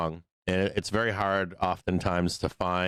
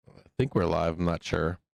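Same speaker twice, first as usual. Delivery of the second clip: hoarse voice. Real, not acted. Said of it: "My voice is gone".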